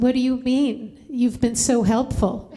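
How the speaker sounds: mock tearful gushing, rising in pitch; tearful mother. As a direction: imitate a mother overcome with gratitude. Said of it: "she burst into tears".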